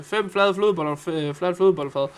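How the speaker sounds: fem flade flødeboller said as a Danish tongue twister, stumbling into flat flødebollefad. Shown as a demonstration. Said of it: "If you just say".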